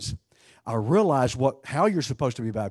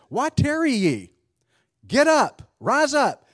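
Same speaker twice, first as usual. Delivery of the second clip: urgent command; 10 semitones higher, 4 dB louder, slower than usual. Acted. Preacher voicing the apostle's command.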